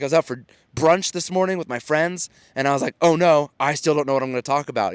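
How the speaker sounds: high, bright-voiced mock flamboyant greeting; flamboyant storyteller. Storyteller greeting the audience on stage, playful flamboyant mimicry. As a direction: toss out a showy hello to the crowd. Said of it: "like, flamboyant vibe".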